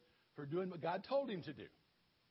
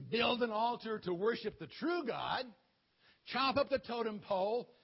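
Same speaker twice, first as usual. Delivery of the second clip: louder, ordering voice; commanding shout; 2 semitones higher, 5 dB louder than usual. Acted. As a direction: bark out God's orders. God commanding Gideon.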